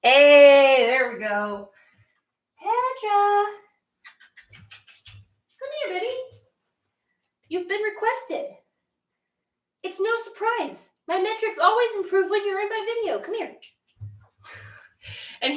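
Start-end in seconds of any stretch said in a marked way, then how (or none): 2.6-13.6 gentle high cooing; soft high pet talk. Real, not acted. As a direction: coo softly to lure her. Coaxing cat, soft high.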